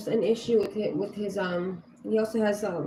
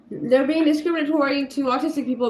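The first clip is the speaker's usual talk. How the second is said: raised voice, a little higher and louder; retold public shout; 4 semitones higher, 4 dB louder than usual. Customer telling surrounding people of discrimination, mild retold shout. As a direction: re-enact calling out to bystanders, partly raised. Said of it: "I shouted in front of the people".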